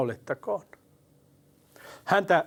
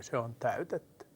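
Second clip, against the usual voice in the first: much softer, barely voiced; hushed last words; 3 semitones lower, 10 dB quieter than usual. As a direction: let it out like a final breath. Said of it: "Sitten hän sanoi". (hiljaa, viimeisenä henkäyksenä)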